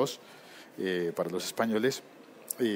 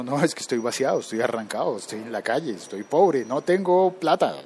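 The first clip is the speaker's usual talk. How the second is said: exasperated insisting; 3 semitones higher, 5 dB louder than usual. Retold or imitated. Acted dialogue with Mexicans, insisting.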